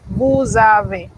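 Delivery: Vous avez slowly, S becoming a buzzing Z; slow liaison. Shown as a demonstration. Teacher demonstrating liaison in vous avez, slowly. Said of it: "se convierte en Z".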